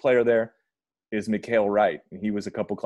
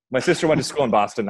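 second Boston accent try; 4 semitones higher, 5 dB louder than usual. Shown as a demonstration. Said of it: "a better delivery on that".

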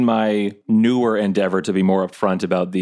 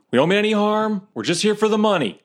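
shouting out; 13 semitones higher than usual. Acted. Player shouts to an unseen voice, high placating call. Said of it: "I'll just shout out".

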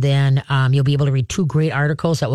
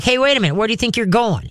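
higher-pitched indignant dog voice; snotty; 5 semitones higher, faster than usual. Acted. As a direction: challenge them like a snotty dog. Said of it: "Being a snot about it".

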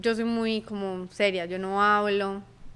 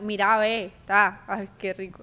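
lightly imitated Cali accent; a hint of Cali sing-song; 3 semitones lower, slower than usual. Guest showing how someone from Cali talks, Cali accent. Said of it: "¿Usted no han visto cómo habla?".

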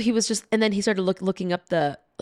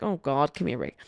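lower, much softer, weary exasperation; eye-rolling coworker; 6 semitones lower, 6 dB quieter, faster than usual. Retold or imitated. Coworker rolling his eyes at the agent, tired exasperation. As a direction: sigh it out like you're over the drama. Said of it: "rolled his eyes".

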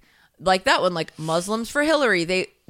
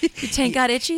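mock voice; 5 semitones higher than usual. Mimicking the silly voice.

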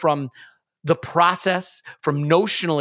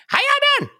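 high, lips-barely-moving Southern country accent; demonstrating the rural Southern accent for listeners; 4 dB louder, much faster than usual. Shown as a demonstration. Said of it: "The real country accent".

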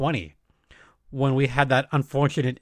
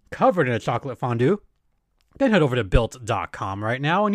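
ad read; 4 dB louder than usual. Acted. Sponsor ad read.

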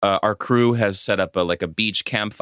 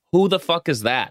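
higher-pitched mock confusion; acted bafflement; 7 semitones higher than usual. Scrolling through own phone contacts, acted bafflement. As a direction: puzzle over it, hammed-up. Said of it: "look through my cell phone and be like".

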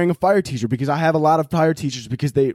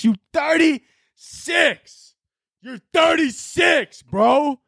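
much higher, slow hollering bro voice; mock bro rant; 8 semitones higher, slower than usual. Yelling at thirty-six-year-old dads doing box jumps, high mock bro rant. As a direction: scold him like an outraged gym bro.

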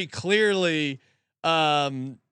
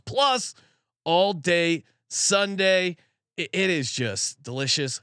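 upbeat host-read pizza ad, stressing each offer. Acted. Host reading a sponsor spot to podcast listeners, upbeat ad read. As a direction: sell the pizza deal to listeners, lightly.

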